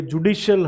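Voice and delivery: जुडिशियल as "ju-DI-shul"; correct pronunciation. Shown as a demonstration. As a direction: say जुडिशियल with a short "shul" ending. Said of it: "हम बोलेंगे".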